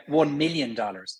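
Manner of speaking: one million dollars in an Irish accent, light L; Irish accent, thin forward L in million. Shown as a demonstration. Irish actor answers the host's version, Irish accent. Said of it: "Well, we would say".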